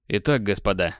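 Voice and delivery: a hint of a cartoon ostrich; lightly voiced cartoon bird. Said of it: "голосом мультяшного страуса".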